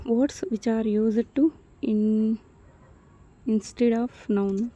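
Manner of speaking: very slow, each word apart; slow dictation. Shown as a demonstration. Teacher dictating the pronoun definition, very slow. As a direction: read it slowly so they can write. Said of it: "teacher dictates definition".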